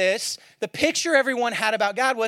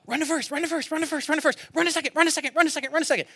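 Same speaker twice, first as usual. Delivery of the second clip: higher, chanted coaching calls; coach calling out; 5 semitones higher, much faster than usual. Retold or imitated. First base coach calling runners in a T-ball game, higher chant. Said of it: "I have one job".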